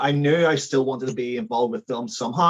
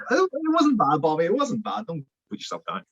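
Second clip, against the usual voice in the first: laughing reassurance; 9 semitones higher than usual. Real, not acted. Reassuring friend.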